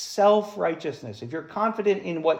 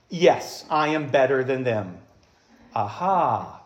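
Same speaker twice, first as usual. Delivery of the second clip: smug Pharisee; 6 semitones lower, slower than usual. Pretend. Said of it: "let's all be Pharisees".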